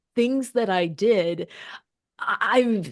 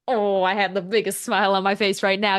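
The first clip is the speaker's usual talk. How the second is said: smiling voice; 3 semitones lower than usual. Real, not acted. Telling the host about meeting her idol, real smile in the voice. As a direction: talk through a big grin. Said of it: "You guys can probably hear it through my voice".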